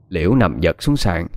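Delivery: usual speaking voice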